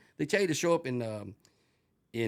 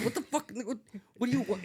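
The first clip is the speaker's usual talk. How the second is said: laughing; 11 semitones higher than usual. Retold or imitated. Retelling own confused reaction.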